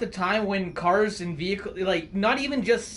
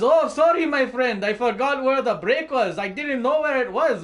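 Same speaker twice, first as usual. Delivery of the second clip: much higher, louder put-on voice for the sorry trucker; mock trucker apology; 5 semitones higher, 5 dB louder than usual. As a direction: play the trucker sheepishly apologizing. Trucker quoted again.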